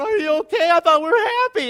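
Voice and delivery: high, loud, put-on voice of alarm; mock concerned onlooker. Onlooker asks someone crying from laughter, mock concern.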